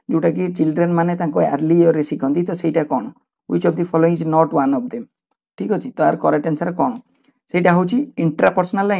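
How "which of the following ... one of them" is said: slow question read-out. Shown as a demonstration. Teacher reads exam question aloud.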